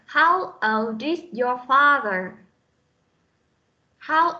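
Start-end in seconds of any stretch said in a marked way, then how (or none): 0.1-2.3 put-on slow model reading, "old is" linked; linked sounds. Shown as a demonstration. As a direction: slowly run the D of "old" into "is". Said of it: "Tiếp tục với câu này". (đọc mẫu chậm, nối âm "old is")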